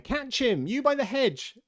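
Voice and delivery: high, loud command; rabbit's high-pitched alarm call; urgent shout. A narrator's reading. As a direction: yell across to someone by the hedge. Rabbit calls out orders.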